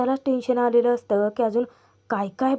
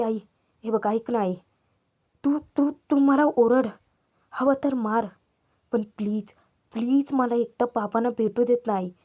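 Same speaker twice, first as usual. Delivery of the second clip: pleading. Retold or imitated. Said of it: "Avni request करते की".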